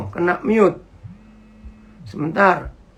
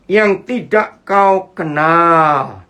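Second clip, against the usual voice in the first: drawn-out, lower-pitched phrase; slow verse reading; 4 semitones lower, much slower than usual. Real, not acted. Preacher reads verse about manna, slow and drawn-out. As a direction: read it slowly, stretching the last word.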